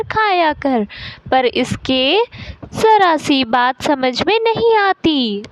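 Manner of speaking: lightly voiced exasperated mum; a hint of a helpless, fed-up mother. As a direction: complain wearily to the doctor. Plays exasperated mother complaining to doctor.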